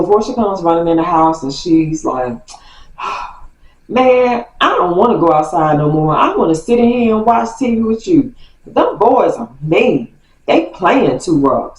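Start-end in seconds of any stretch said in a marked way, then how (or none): 3.9-11.8 put-on whiny kid. Portia complaining to the narrator.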